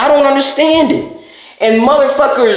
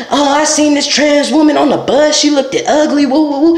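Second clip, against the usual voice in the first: slightly raised, sing-along mock of a gossip; 3 semitones higher than usual. Mocking bus gossipers who post pictures, mock gossipy voice. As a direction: lightly imitate someone posting silly gossip.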